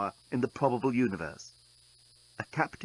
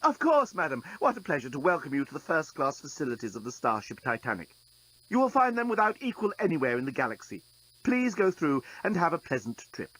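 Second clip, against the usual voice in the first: obsequious robot; 3 semitones higher than usual. Acted.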